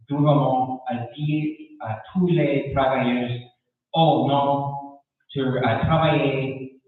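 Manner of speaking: French spoken with a non-native accent; careful, halting second-language French with an accent; foreign accent in french. Real, not acted. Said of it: "pardon mon français, je parle lentement".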